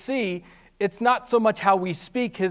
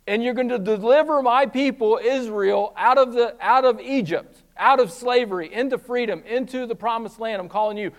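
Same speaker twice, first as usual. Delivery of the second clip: voice of God; 4 semitones higher, 6 dB louder than usual. Retold or imitated. Voicing God calling Moses.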